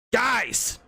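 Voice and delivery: loud, high snap to stop the bickering; sharp snap. Acted. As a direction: cut them off with a loud bark. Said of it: "Lucas snapped".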